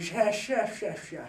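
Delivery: nasal-sounding nerdy doctor; nerd doctor voice. Shown as a demonstration. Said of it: "doctor nerd voices was talking like this".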